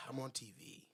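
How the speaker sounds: low, hushed imitation; quiet, low retelling; imitated remark. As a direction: say it softly, mimicking him. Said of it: "He said".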